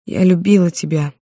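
a pained, groaning confession with a lean on любила; moaned confession. Acted. Heroine confesses her past love to Artur, a pained moan. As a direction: let it out like a moan of hurt. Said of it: "простонала я".

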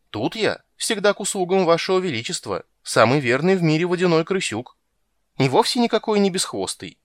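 a fawning little rat protesting; squeaky water rat. Acted.

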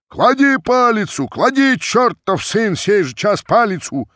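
furious mob shouting down their leader; crowd yelling. A narrator's reading. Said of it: "кричали из толпы казаки".

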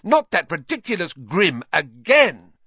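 loudly. A narrator's reading. Hermione interrupting Trelawney, loud and exasperated. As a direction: burst out in exasperation. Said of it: "said Hermione loudly".

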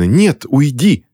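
громко и протяжно, выше; отогнать криком. A narrator's reading. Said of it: "кричала Кристина". (Кристина кричит, прогоняя)

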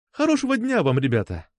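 put-on high, friendly café girl's send-off; smiling farewell. A narrator's reading. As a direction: wish them well with a smile in the voice. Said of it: "улыбнулась нам кофейная девушка". (приветливо, с улыбкой)

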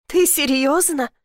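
almost laugh at how absurd it is; bitter disbelief. Acted. Elif to her sister, bitter and disbelieving.

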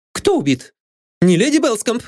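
high, alarmed question; frightened. A narrator's reading. Maid Anne fears her lady was killed. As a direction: fear for your mistress.

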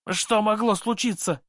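put-on high drunken yell. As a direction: bellow the question. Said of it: "проорал Шамес".

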